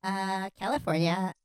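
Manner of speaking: staccato line reading, word by word. Acted. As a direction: separate the words in a deliberate read. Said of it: "You're so staccato".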